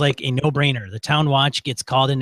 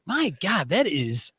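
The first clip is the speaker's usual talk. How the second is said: pained; 4 semitones higher, 3 dB quieter, slower than usual. Real, not acted. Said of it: "got my right thigh".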